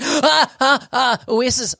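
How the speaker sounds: high, acted burst of recognition; excited recognition. Patient recognises the clinic's name at reception, acted excitement. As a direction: replay a sudden "aha" moment, pitched high. Acts out sudden recognition upstairs.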